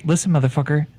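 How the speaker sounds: put-on Irish accent, picking a fight with the innkeeper. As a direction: rattle it off in a quick Irish brogue.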